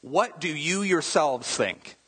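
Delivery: slow, stress on What and yourselves; emphatic question. Shown as a demonstration. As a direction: lean on yourselves, pointing back at them. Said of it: "It's kind of like this".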